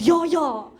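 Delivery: quick South African "Yo, yo" as yes. Retold or imitated. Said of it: "super South African way of saying yes".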